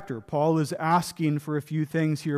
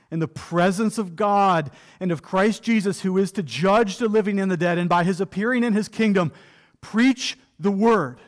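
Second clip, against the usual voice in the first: scripture read aloud. Shown as a demonstration. Preacher reading Paul's charge to Timothy aloud, solemn.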